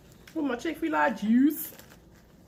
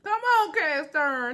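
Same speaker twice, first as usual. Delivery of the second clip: excited cheer; 5 semitones higher, slower than usual. Real, not acted. Cheering the skillet line.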